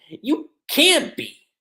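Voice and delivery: Gray freaking out. Retold or imitated. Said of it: "Gray's freaking out".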